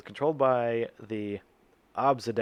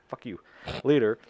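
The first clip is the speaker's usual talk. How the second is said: usual speaking voice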